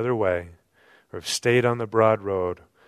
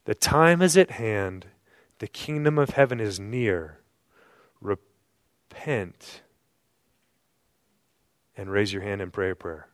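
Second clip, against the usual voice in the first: wrong misquote. Shown as a demonstration. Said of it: "That's not what he said".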